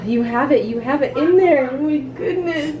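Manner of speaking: rising from hushed amazement into high delight; real excitement. Real, not acted. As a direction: marvel at the good news, pitch climbing to a laugh. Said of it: "I'm so excited".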